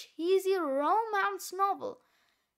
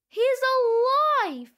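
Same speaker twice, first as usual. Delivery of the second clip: excited relief; 7 semitones higher, 9 dB louder, faster than usual. Real, not acted. Relief that the pet survived.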